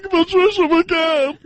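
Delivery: high, slow, stretched signature; Patricia McCann impression. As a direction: sing out the name high and drawn out. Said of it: "But they're always like this".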